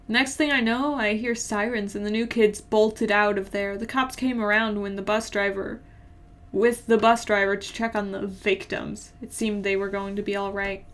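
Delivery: even, measured story reading; plain-spoken first-person narration. A narrator's reading. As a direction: read the story aloud evenly. Reads a story aloud.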